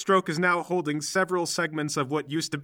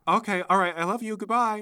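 lightly voiced mother, lilting upward; high, sweet sign-off on the phone; doting mom; 3 semitones higher than usual. Mom says goodbye to her son, lightly doting.

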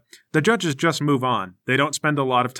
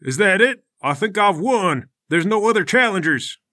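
bald fighter; 4 semitones higher than usual. Acted. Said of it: "he says".

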